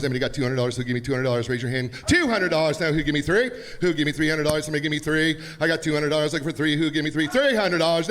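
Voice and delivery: rapid auctioneer chant. Acted. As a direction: rattle off bids like an auctioneer. Runs the charity auction.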